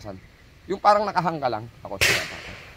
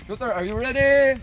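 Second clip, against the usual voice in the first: loud, high call of "Shooter, are you ready?"; range command; 6 semitones higher, 7 dB louder than usual. Real, not acted. Range officer readying the shooter, loud raised call. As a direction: project it across the range.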